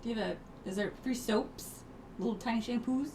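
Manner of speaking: high, excited voice craving details; high-pitched, eager questions about tiny soaps; eager gossip. Pretend. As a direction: bounce up high like you want all the deets. Playing eager hotel asker.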